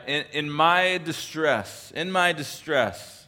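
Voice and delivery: "distress" drawn out slowly, savoured; slow and deliberate. Shown as a demonstration. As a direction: pause on each word so it sinks in. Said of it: "I want us to really grasp".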